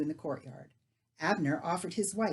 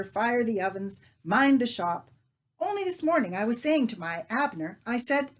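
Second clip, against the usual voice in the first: lightly voiced bustling woman, a touch higher; chatty baker's wife; 3 semitones higher, 6 dB louder than usual. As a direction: chatter on like a busy housewife. Narrator voices Leah, chatty wife.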